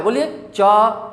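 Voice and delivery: च said very slowly, with no breath; slow demo of plain च; unaspirated ch. Shown as a demonstration. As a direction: stretch out a clean च without air. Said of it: "उसी प्रकार से च है".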